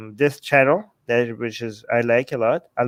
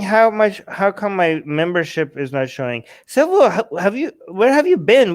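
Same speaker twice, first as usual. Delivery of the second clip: sharp, loud and high; 4 semitones higher than usual. Real, not acted. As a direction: snap at the viewer. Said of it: "you come in so hot".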